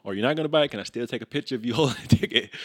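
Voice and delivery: upbeat, teasing ticket hustle; playful sales pitch. Retold or imitated. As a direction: pitch it like a friendly street seller. Acting out selling tickets to people.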